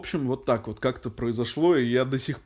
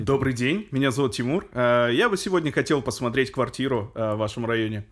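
public radio host. Shown as a demonstration. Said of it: "покажи, как ты звонил риэлтору".

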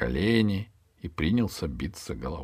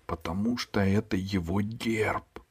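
whispered answer; 2 semitones higher, 3 dB quieter than usual. Acted. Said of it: "спросила Алиса шёпотом". (шёпотом)

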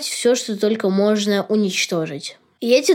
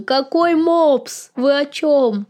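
mock indignation; 4 semitones higher, slower than usual. Real, not acted. Playfully demands an answer from the cartoon's creators.

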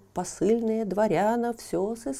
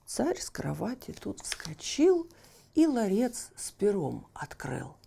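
plain reading voice

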